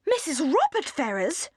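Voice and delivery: stunned whisper, rising at the end; utter amazement. A narrator's reading. Mother and sister hear shocking news, whispered amazement. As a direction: breathe the name in disbelief. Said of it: "in an accent of the utmost amazement".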